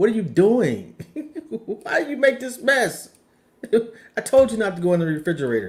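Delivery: mock angry, sharp woman's voice. Asked what their mom says coming into the kitchen, imitating an angry mom. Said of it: "mom's just pissed".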